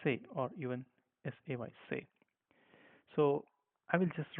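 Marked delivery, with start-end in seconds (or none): 0.0-0.2 "say" as the German name of C; German C, rhymes with day; German letter C. Shown as a demonstration. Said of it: "we pronounce this as".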